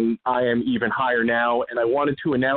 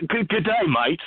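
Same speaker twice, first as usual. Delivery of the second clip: mock Australian; 5 semitones higher than usual. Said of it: "you even got an Australian accent".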